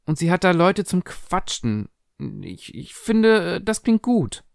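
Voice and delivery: put-on high, anxious young girl; worried, persuasive daughter voice; pleading daughter. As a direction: coax your mother, pitched well up.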